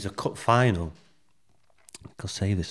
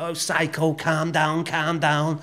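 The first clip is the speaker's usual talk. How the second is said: raised, high-pitched imitation calling for calm; high mock-alarmed plea; Roy Keane; 7 semitones higher, slower than usual. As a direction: imitate someone urgently talking down a hothead. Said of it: "that's when Keane was going".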